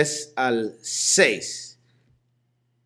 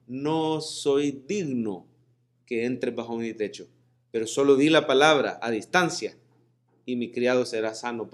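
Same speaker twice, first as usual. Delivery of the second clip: humble request; 2 semitones lower than usual. Retold or imitated. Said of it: "el centurión dijo".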